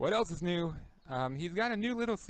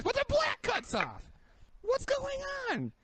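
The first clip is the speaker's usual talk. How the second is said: high-pitched exasperated yelp; exasperated outburst. Real, not acted. Reviewer ranting at a botched paint scheme, exasperated. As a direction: protest it high, in sudden disbelief.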